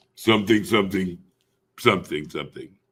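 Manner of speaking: put-on low announcer voice. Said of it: "Deep voice things".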